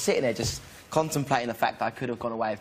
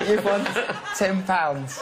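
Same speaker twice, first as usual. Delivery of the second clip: loud, higher mock prize reading; mock announcement; 6 semitones higher, 3 dB louder, much slower than usual. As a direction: laugh through the tiny prize. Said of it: "they write it in".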